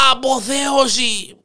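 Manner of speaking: high, drawn-out exultant cry. Acted. Hare demonstrating his trick to the lion, crying out. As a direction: stretch it into a long high call.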